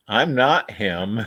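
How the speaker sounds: slow, amused, laughing through it; laughing reply. Retold or imitated. Answering the deputy, laughing as he says it. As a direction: chuckle the denial back at him. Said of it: "And it's like".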